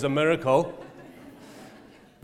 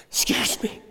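soft request; 5 semitones higher than usual. Retold or imitated. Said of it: "and Heidi said to me".

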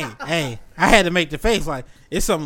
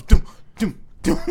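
high, punchy "doom" beats; imitated drum hits; 7 semitones higher, 6 dB louder than usual. Friend mimicking a track's drums, punchy imitation. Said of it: "that shit got some ass eighty drums".

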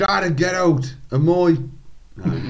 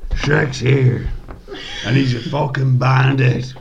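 slightly Irish; 7 semitones lower than usual. Acted. Shrek threatening the gunslinger in a low slight Irish accent. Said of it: "my slightly Irish voice".

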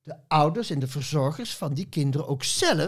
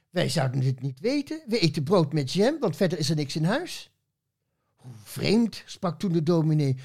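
lively rhyming read-aloud with voiced characters; poem recital; 4 semitones higher than usual. Poet reading her Schaap Veronica tribute on the radio, playful recital. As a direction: read the verse with playful, bouncing rhythm.

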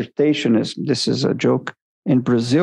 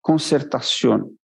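Spanish accent. Real, not acted. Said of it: "with this Spanish accent".

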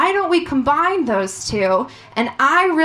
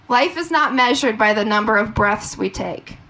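low, earnest quote reading; deadpan inspirational recital; mock-serious poetry; 4 semitones lower than usual. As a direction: read it like a solemn poem. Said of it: "more serious about this".

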